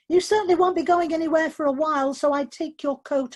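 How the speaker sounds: lively insistence. Acted. Charlie teasing the stranded newcomer.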